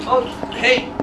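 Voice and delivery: startled tree. Acted. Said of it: "says Tree".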